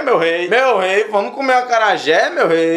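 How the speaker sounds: singsong TV caricature of Bahian speech; mock Bahian lilt; soap-opera Bahian accent. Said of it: "Baiano nas novelas da Globo fala assim".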